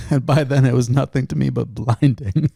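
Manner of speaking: Bane voice. Retold or imitated. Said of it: "quoting Bane from The Dark Knight Rises".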